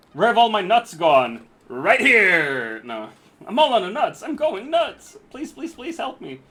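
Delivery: high, loud cartoon squirrel whine; silly clown. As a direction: wail like a frantic cartoon critter. Squirrel voice lamenting lost nuts.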